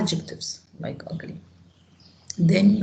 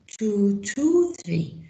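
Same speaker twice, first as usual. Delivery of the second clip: slow repeat; 2 semitones higher, much slower than usual. Shown as a demonstration. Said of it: "It is page two two three".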